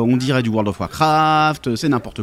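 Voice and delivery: imitated complainers, line endings dragged out; lightly hammed-up moaning of discontented fans; mock grumbling. Player imitating old grognards unhappy with the new edition, mock grumbling. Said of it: "les grognards, hein, qui étaient pas contents".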